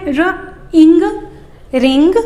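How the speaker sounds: "र, इंग" split and then joined as "रिंग"; sound blending. Shown as a demonstration. Teacher blending for parents. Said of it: "देखिए ये आईएनजी है".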